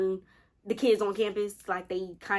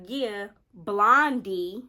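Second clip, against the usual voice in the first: drawn-out smug; 5 dB louder, much slower than usual. Retold or imitated. Friend breaking news smugly.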